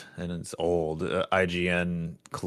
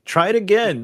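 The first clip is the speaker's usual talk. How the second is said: "try it again" pushed high and loud; urging harder; 12 semitones higher, 6 dB louder than usual. Retold or imitated. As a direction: pitch jumps way up, louder, mock exasperation. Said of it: "my instincts would be like".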